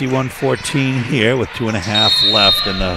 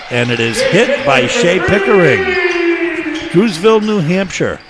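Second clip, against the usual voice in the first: excited play-by-play; 9 semitones higher, 5 dB louder than usual. Real, not acted. Call of a made three.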